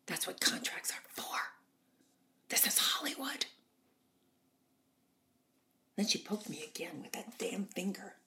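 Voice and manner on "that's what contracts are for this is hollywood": Norma Desmond. Retold or imitated. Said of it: "She said".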